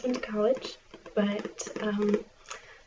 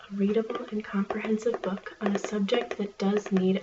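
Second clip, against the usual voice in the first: library whisper. Acted.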